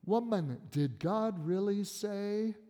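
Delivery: slow, insinuating serpent; sly serpent. Acted. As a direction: draw the doubt out slyly. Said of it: "He says to the woman".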